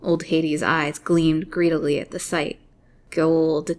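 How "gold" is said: muttered. A narrator's reading. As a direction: mutter the word to yourself, greedy. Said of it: "she muttered".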